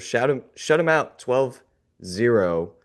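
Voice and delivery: ordinary delivery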